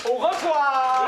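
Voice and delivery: loud, slow, pointed au revoir; drawn out to get him out the door; impatient goodbye. Acted. Husband drags out a loud goodbye to the pushy volunteer. Pushing the visitor out.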